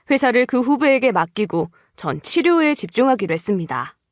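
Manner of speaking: ordinary delivery, nothing marked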